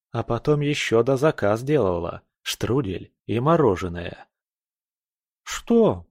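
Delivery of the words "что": mumbled through a full mouth; talking round a mouthful of food. Acted. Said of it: "прошамкала с набитым ртом".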